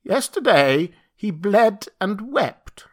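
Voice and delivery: high, slow bleating creature voice; bleating satyr voice. Acted. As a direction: bleat like a goat man. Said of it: "said the satyr".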